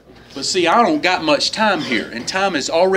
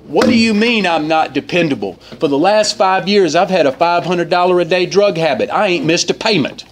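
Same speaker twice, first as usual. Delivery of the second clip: put-on slightly louder, lightly slurred drunk; drunken voice; 3 semitones higher, 3 dB louder than usual. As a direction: play a drunk protesting his reliability. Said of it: "in his best drunken voice".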